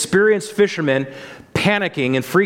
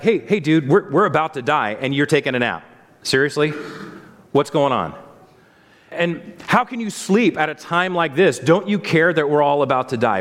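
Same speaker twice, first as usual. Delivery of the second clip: mock sarcastic disciples. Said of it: "a tinge of sarcastic venting".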